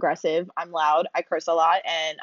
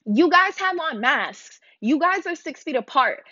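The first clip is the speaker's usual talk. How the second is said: mock Karen voice; 6 semitones higher than usual. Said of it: "she turns around and she goes".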